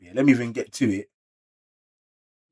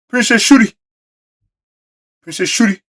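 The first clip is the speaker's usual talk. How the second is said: much higher and louder, thrilled; excited exclamation; 12 semitones higher, 12 dB louder than usual. Real, not acted. Spotting the princess in the chapter, excited high call. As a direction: call her name out in delight.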